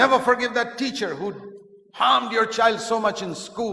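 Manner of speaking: high, loud, impassioned incitement; indignant urging. Acted. Giant to a wronged parent, indignant command. Unforgiving giant urges grudge.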